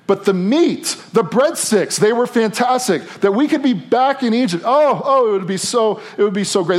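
a hint of homesick grumblers pining for Egypt; whiny Israelites rationalizing. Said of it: "here's kind of the rationalization".

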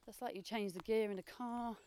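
talking while running uphill; out of breath on a hill climb; while jogging. Real, not acted. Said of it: "Time to run again".

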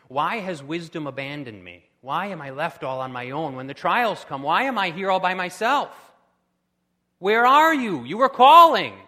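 rising from pleading to a loud, high cry of abandonment; anguished cry of the fool. Acted. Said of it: "The fool ends up asking".

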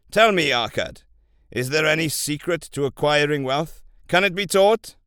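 loud, commanding royal voice; booming warrior king. Acted. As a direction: boom out the king's orders.

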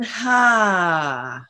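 breathy sighing exhale. Shown as a demonstration. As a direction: release with a sigh. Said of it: "sigh it out again".

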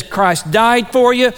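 slow, emphatic retold evangelism; aggressive preaching. Buddy sharing the gospel in someone's face, aggressive. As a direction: press each word on the listener, mildly forceful. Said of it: "it's just real aggressive".

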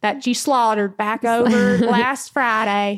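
slow mock Southern drawl; Southern accent. Host riffing on chicken soup, slow Southern. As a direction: draw it out in folksy Southern. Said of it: "Southern accent is comforting".

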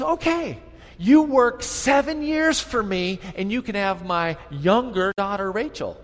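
a lightly voiced scheming uncle. Preacher voicing Laban's offer.

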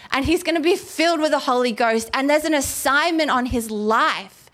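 eager preacher hype; excited. Acted. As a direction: rush it out like great news. Excited retelling of the promise.

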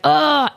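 mock frustrated "ugh"; retold exasperated groan. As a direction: let out a groan, acting out past frustration. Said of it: "yelling at God. I'm crying".

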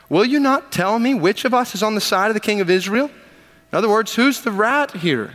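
angry king. Acted. Enraged king demands of officers.

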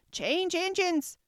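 high, loud, drawn-out hoarse call. A narrator's reading. Unseen horse speaking out in the carriage, hoarse voice. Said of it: "a hoarse voice spoke out".

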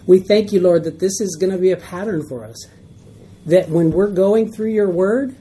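earnest closing prayer to God. Acted.

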